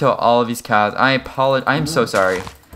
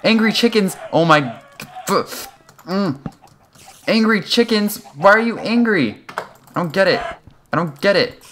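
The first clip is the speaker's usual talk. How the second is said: bewildered; 9 semitones higher than usual. Real, not acted. Asking the chickens why they're angry, high bewilderment. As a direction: plead in confused disbelief.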